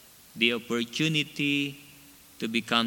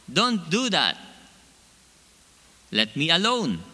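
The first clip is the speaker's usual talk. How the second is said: higher, louder protest as the clay; yelling out; 5 semitones higher, 4 dB louder than usual. Retold or imitated. Clay yelling at the master to stop, loud protest. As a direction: cry out against being pounded. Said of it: "and I yelled out".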